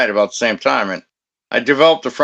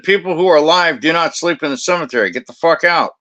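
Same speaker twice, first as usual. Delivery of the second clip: retold stern telling-off; 5 semitones higher than usual. Retold telling-off of cemetery sleepers.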